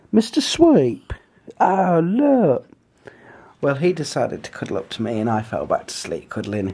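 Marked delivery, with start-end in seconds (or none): 0.1-2.7 breathy whisper, slow. Real, not acted. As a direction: hush it so the dog stays asleep. Whispering about sleeping dog.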